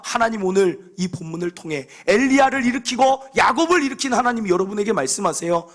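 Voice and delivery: ordinary talk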